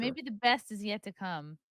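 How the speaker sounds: deadpan sarcastic well-wishing; passive-aggressive optimism, sweetly understated. Real, not acted. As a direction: say it with veiled sarcasm. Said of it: "You're so sarcastic".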